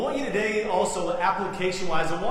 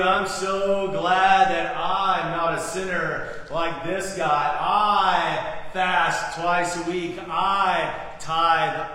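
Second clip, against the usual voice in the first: boastful Pharisee; 5 dB louder, slower than usual. Acted. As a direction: brag to God like a chest-pumping Pharisee. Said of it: "the Pharisee's pumping his chest".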